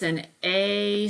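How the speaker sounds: A drawn out as its letter name; stretched long A; long A sound. Shown as a demonstration. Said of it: "that's the long sound".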